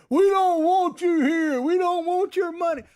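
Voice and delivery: imagined angry shout. Pretend. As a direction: yell it like a protester in a packed restaurant. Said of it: "in a restaurant and shouting".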